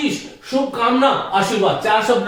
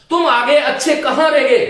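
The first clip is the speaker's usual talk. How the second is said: lively greeting; 4 semitones higher, 4 dB louder than usual. Shown as a demonstration. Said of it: "ये अच्छे जो इस वाक्य में आया है".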